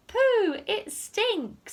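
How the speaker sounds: high, loud cry of disgust; disgusted thief. Acted. Len digs in the muck heap and recoils, disgusted. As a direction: recoil at the stink. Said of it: "Len said".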